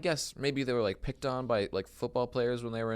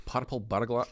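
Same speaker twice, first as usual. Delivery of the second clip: attempted Scottish accent; 3 semitones higher than usual. Shown as a demonstration. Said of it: "in a Scottish accent".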